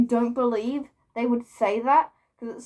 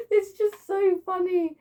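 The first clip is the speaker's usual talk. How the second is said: laughing through words; 9 semitones higher, 4 dB louder than usual. Real, not acted. Laughing at her own story.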